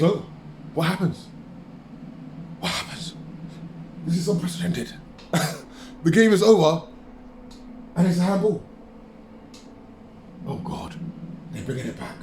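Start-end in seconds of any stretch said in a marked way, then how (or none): 2.6-3.1 a soft, breathless whisper; stunned whisper. Real, not acted. Whispered repeat of a question. 10.5-12.1 much softer and lower, awed; hushed disbelief; stunned. Real, not acted. Stunned as the penalty is reviewed.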